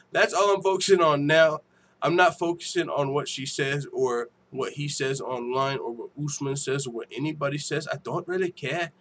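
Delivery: imitating a Liverpool accent lightly; a loose Scouse impression of Darren Till; mock Darren Till. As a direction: Liverpool accent, half-done. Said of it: "I try to say it like him at the end".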